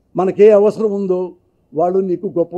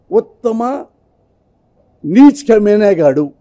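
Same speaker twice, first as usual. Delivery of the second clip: very slow drawn-out build, then a loud punchline; sarcastic fake award call; mock award announcement; 2 semitones higher, 5 dB louder, slower than usual. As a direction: stretch it like a ceremony host, then land the insult.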